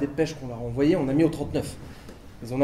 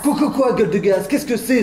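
higher, stammered outburst of bafflement; baffled indignation; 4 semitones higher than usual. Acted. Man queries her garbled French, indignant and baffled. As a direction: splutter it back in disbelief.

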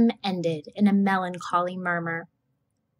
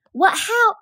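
put-on high, loud startled child; surprised; 12 semitones higher, 5 dB louder than usual. A narrator's reading. Scout astonished at Calpurnia, a high startled cry. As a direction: jump up in disbelief.

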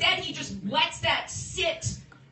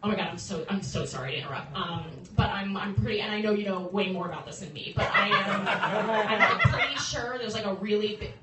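timid apologetic woman; 3 semitones lower than usual. Retold or imitated. Woman telling the Titanic captain about the iceberg, lightly voiced timid apology. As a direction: apologize too much before saying it. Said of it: "was like".

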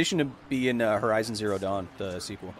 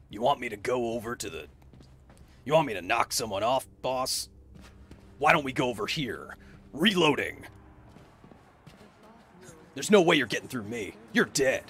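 tough guy voice. Shown as a demonstration. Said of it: "generic video game tough guy voice".

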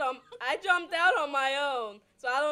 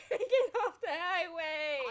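laughing yell; 3 semitones higher than usual. Real, not acted. Yelling directions at a teammate.

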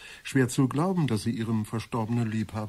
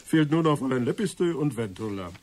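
laughing; 4 semitones higher than usual. Acted. Amused remark among guests.

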